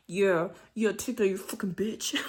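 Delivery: hushed, breathy insult; whispered degrading talk. Shown as a demonstration. Showing the degrading talk she dislikes, whispered. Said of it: "instead of like".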